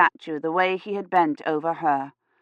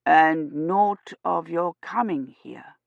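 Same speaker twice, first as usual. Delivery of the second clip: slow priest question; slower than usual. Acted.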